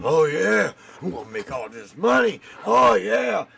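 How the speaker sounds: mock eager, high excited voice; mock eager kid. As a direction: ham up an overconfident kid. Mocking eager kids.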